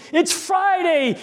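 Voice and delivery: slow drawn-out preacher's yell on Friday; old pastor yelling the refrain at the congregation. Retold or imitated. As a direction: call out It's Friday at full voice. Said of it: "yelled at the top of the lung".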